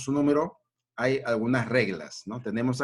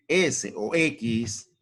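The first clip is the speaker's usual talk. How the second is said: slow dictation; much slower than usual. Shown as a demonstration. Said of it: "teacher spells out letters".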